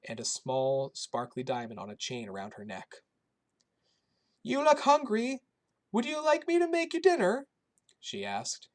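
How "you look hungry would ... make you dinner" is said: put-on high, loud old Polish woman's accent; kindly old woman with a thick Polish accent. A narrator's reading. Shelter cook greeting the boy in a thick Polish accent. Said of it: "in her thick Polish accent".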